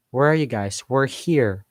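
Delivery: "guys" and "here" gliding up then down; staircase intonation. Shown as a demonstration. Answering where are you guys, staircase intonation. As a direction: let "here" rise and fall. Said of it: "they go up and down".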